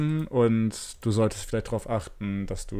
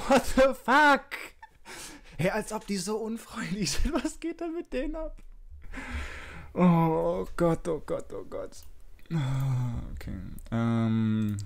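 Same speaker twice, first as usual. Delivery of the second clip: digitally distorted voice; voice changer; 6 semitones higher, slower than usual. Real, not acted. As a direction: speak through a voice changer. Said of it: "ich mach mal den Stimmverzerrer kurz aus".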